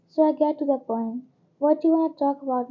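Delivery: loud and fast, cutting straight to the point; brisk loud demand from the sister confronting the professor. Acted. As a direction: push the question at him like a challenge.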